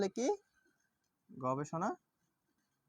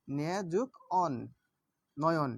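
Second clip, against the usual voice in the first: slow syllable split; 2 semitones lower, slower than usual. Shown as a demonstration. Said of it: "দেখুন নে যুগ".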